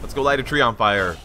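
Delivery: loud orc peon voice; gruff peon, eager to burn. Pretend. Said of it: "Like my orc voice?".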